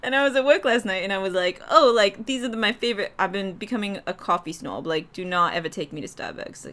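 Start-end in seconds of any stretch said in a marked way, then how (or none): 1.7-6.6 lightly put-on Boston accent; fake Boston accent. Coffee snob talking to a coworker, fake Boston accent. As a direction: slip into Boston vowels while chatting. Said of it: "it's a fake accent".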